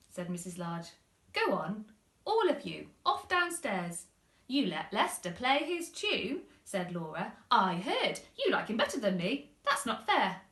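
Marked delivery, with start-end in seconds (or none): 1.3-4.1 louder, rising shooing; firm mum. Acted. Mum sending kids downstairs, firm and louder. 4.5-10.4 sulky complaint. Acted. Laura complaining to mum, loud sulky child.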